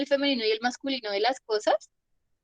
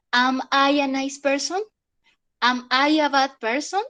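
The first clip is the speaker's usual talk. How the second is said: slow, searching self-questions; slow reflective questions; 2 semitones higher than usual. Shown as a demonstration. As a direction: ask yourself slowly. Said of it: "Si nos queremos poner profundos".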